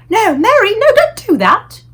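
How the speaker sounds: loud, high, slow sharp order; sharp command. A narrator's reading. Queen sharply stopping the maid, commanding. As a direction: stop her at once. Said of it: "The Queen spoke so sharply".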